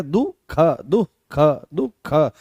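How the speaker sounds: "दुख" broken into duh, then kha; correct visarga pronunciation. Shown as a demonstration. Teacher drilling the sound for students, "दुख" split as दुह-ख. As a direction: separate the ख in "दुख" after a short h. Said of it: "इस तरह से".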